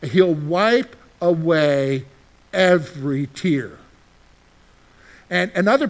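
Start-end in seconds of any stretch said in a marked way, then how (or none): 0.0-3.7 reading scripture slowly with a pause before every tear; slow, paused reading. Shown as a demonstration. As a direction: let each word land slowly. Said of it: "you need to pause where it says".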